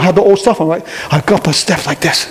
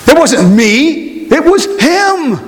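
slow, rising to a high HIM; preacher hammering it was him; slow emphatic preaching; 8 semitones higher, much slower than usual. Acted. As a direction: drive home the point word by word.

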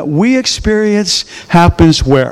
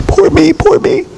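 self-pity; 8 semitones higher than usual. Pretend. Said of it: "sit down on the couch and go".

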